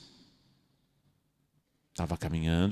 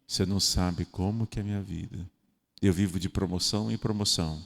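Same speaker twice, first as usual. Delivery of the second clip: quieter, fast moaning; self-pitying complaint; 4 semitones lower, 4 dB quieter, faster than usual. Pretend. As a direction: grumble your sorrows. Self-pitying customer reply. (queixa de autopiedade, baixinha)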